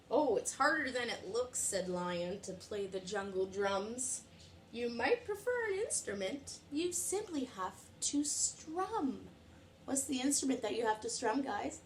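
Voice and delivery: put-on lively read-aloud to little kids; storytime reading. A narrator's reading. Teacher reading a picture book to children, lively. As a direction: read it bright and animated for the class.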